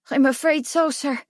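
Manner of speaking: put-on high, hesitant boy's voice; apologetic boy. A narrator's reading. Boy confirming bad news to prince, high and nervous.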